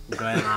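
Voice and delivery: "grenade" said as a foreign-sounding "gren-ahd"; pretentious pronunciation. Retold or imitated. Babysitter correcting Anthony, "grenade" with a put-on foreign vowel. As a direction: say "grenade" with a long open second vowel. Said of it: "It's pronounced".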